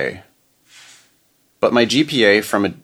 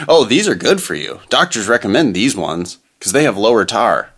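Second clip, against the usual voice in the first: chipper 1950s ad. Retold or imitated. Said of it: "That's a good example".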